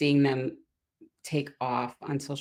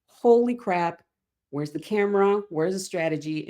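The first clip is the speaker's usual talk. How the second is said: high, loud astonished outburst; mock amazed client exclaiming; excited client; 4 semitones higher, 5 dB louder than usual. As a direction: burst out amazed at the breakthrough. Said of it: "they come out and they're like".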